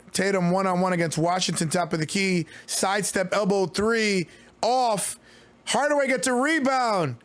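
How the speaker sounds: quick excited courtside call; live play-by-play. Real, not acted. Streamer calling the Finals live, brisk play-by-play. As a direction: call the action as it happens.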